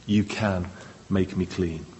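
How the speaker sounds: soft, low, sure trust; a gentle, believing plea; quiet faith. Retold or imitated. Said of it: "And then the faith".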